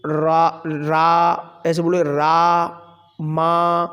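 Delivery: रा and मा said slowly, one by one, with gaps; slow separate syllables. Shown as a demonstration. Teacher to students, slow syllable-by-syllable demo. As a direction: break रा and मा apart, slowly. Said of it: "लेकिन हमने धीरे धीरे बोला".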